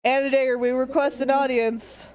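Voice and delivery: projecting like a bard. Acted. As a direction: call out grandly to the gate. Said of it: "I project with my, my bard-like voice".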